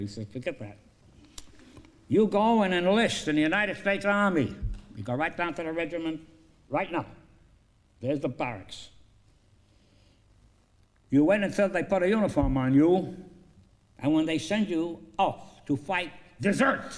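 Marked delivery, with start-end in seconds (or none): 0.3-4.5 firm barked order, louder at the end; commanding order. Retold or imitated. Trader ordering the grateful bum to enlist, loud command. 11.1-16.9 conspiratorial instruction. Retold or imitated. Trader telling the bum to desert and come back, loud deliberate.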